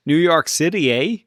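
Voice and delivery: lightly attempted Canadian accent with a tacked-on eh. Shown as a demonstration. Co-host attempting the requested line, mock Canadian accent. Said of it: "say that in a Canadian accent".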